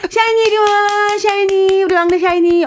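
high sing-song pet call; doting owner calling the little one; calling a puppy. Pretend. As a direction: coo the pet's new name, playfully. Pretends calling the puppy by name.

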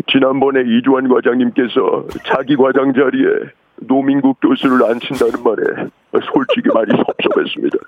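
measured, formal drama-actor delivery; Kim Myung-min. Acted. Caller impersonating a hospital drama doctor for radio host, measured grievance. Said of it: "하얀 거탑의 김명민입니다".

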